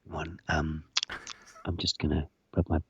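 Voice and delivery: tongue-in-cheek ASMR for listeners; mock ASMR. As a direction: rub the beard for the mic. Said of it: "This is for all you A S M R perverts".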